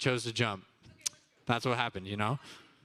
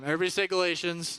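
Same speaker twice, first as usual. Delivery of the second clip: energetic shouted prompt; 4 semitones higher, faster than usual. Shown as a demonstration. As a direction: shout the cue to get the room going. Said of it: "Mm, one more time".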